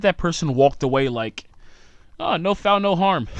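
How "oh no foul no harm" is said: high-pitched, carefree mock voice; mock breezy culprit. Imagined culprit walking away from the mess, breezy mock voice. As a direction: shrug it off in a high comic voice.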